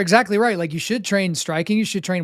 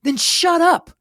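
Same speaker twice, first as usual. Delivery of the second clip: sharp higher blunt line from a mentor; coach's blunt retort; 10 semitones higher, slower than usual. Retold or imitated. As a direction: cut him off like a no-nonsense teammate. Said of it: "And then he's like".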